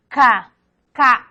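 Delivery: crisp isolated "K" demo from the back of the mouth; velar k sound. Shown as a demonstration. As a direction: say "K" as an isolated velar stop, back of the tongue on the palate. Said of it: "la K consonante cuvelar". (sonido "K" aislado, consonante velar)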